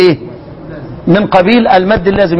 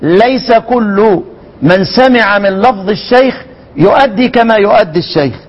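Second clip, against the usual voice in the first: slow quoted maxim. Retold or imitated. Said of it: "ولذلك قال العلماء".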